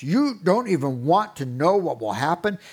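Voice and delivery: mock threat hollered up the stairs; a half-joking loud threat, slowing on the stairs; hollering threats. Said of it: "hollering threats up the stairs".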